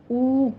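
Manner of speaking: او said with a clear rounded long o; vowel demo. Shown as a demonstration. Teacher models the او sound for students. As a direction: give او a full rounded sound. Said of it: "او کی sound آئے گی".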